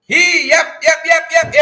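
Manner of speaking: high fast yep yep; excited yeps. Real, not acted. Host gleefully agreeing about the puppets. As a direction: bounce on each yep.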